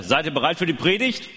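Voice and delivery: rising hyped call to the crowd; kids show host. Acted. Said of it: "Also ich sag jetzt erstmal".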